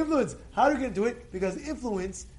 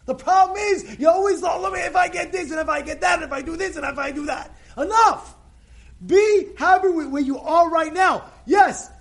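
higher, louder pulpit exhortation; preaching at full force; 8 semitones higher, 8 dB louder than usual. Acted. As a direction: drive the point home to the congregation.

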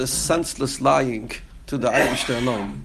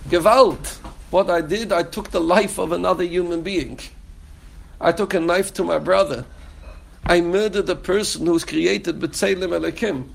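anguished confession; 4 semitones higher than usual. Acted. Hoped-for remorseful confession voiced.

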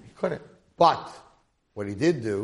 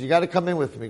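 louder, pressing demand; forceful insistence; 6 semitones higher, 6 dB louder, faster than usual. Acted. The demon chief orders the mohel into his warehouse, loud and insistent. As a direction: push him through the door with your voice.

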